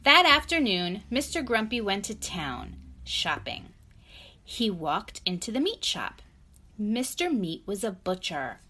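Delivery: clear, measured picture-book narration; story read to child. A narrator's reading.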